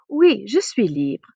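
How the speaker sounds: slow, clear "Oui, je suis libre"; careful French. Shown as a demonstration. Teacher models accepting in French, slowly. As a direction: model the answer slowly for the class. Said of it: "You can ask".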